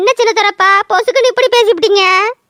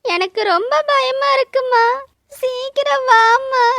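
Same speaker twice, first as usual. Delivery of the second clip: a small, frightened plea to mother; mild fear, holding back tears; scared. Acted. Alone, scared, calling for mother.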